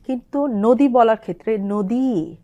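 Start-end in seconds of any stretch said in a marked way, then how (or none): 0.5-0.9 নদী with the last ই drawn out; long i in nodi. Shown as a demonstration. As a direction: stretch the ী in নদী. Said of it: "দীর্ঘায়িত করে বলতে হবে". (নদী-র ঈ টেনে বলা)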